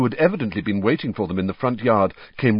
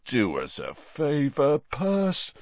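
yawning; 5 semitones higher, slower than usual. Acted.

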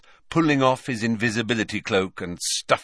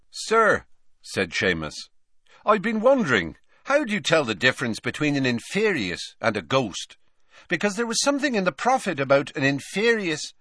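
put-on eager boy, higher voice; Seamus, eager schoolboy; 7 semitones higher than usual. A narrator's reading. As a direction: pipe up like an eager pupil. Seamus asks Snape.

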